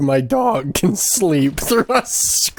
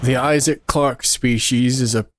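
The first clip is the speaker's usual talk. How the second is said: nature documentary; 2 semitones lower than usual. Acted. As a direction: narrate like a wildlife film. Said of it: "here we see a wild Isaac Clarke".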